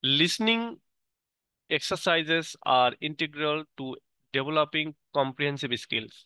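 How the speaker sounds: slow, careful reading aloud word by word; teacher reading the English definition aloud slowly; slow textbook reading. Acted. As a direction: read it like dictation for the class. Reads English text slowly.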